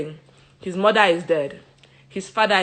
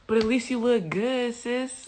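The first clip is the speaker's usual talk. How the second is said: mock midwife; 3 semitones higher, 6 dB quieter than usual. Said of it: "And they're like".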